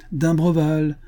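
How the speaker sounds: first call to a sleeping man. A narrator's reading. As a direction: hail him toward the cabin. Calling to the cabin.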